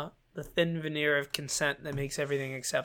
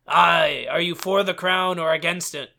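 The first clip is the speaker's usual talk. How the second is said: hearty olde English swordsman; renaissance fair olde speech; 6 dB louder than usual. Acted. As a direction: boom it like a Renaissance fair pirate. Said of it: "They talk in old English".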